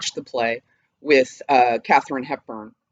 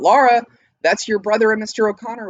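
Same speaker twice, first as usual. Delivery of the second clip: mother calling out; 6 semitones higher, faster than usual. Acted. Mother calls daughter from the kitchen to open the door, raised call. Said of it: "Amanda yells out".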